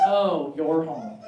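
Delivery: lightly voiced aloof cat; bored cat. Indifferent cat greeting its owner, slow and flat. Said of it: "You're like".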